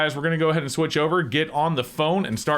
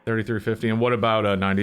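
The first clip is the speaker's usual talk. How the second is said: disguised voice through a voice changer; masked caller voice; faster than usual. Real, not acted. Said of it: "I am using a voice changer".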